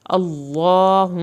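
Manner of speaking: slow اللہم with the زبر on meem kept short; unstretched zabar. Shown as a demonstration. Teacher showing the right way to read, slow and careful. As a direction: read اللہم slowly but do not drag the زبر on its meem. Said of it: "آپ نے اس کی زبر کو نہیں کھینچنا".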